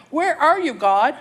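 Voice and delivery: loud, scared call to God; panicky cry. Acted. Terrified woman alone on the rapids, panicked shout. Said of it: "She's panicky, she's scared, she's going".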